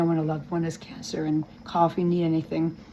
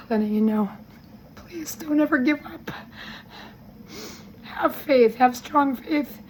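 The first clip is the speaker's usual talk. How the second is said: higher, tearful pleading through real tears; crying; 6 semitones higher than usual. Real, not acted. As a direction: voice cracking as she thanks her friends, fighting sobs. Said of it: "Guess I'm crying".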